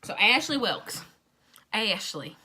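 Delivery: put-on Southern accent on the name. Shown as a demonstration. Telling listeners how to say Ashley's name, Southern accent. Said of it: "You gotta say it with that Southern accent".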